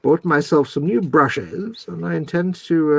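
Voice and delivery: slow, put-on posh presenter; YouTube presenter voice. Shown as a demonstration. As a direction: announce it like a mock-posh tutorial host. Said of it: "it was your YouTube voice".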